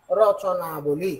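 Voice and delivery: "রচনাবলী" slowly stretched out; drawn-out word. Shown as a demonstration. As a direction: repeat "রচনাবলী" slowly, as for dictation. Teacher repeats word being written. ("রচনাবলী" ধীরে টেনে উচ্চারণ)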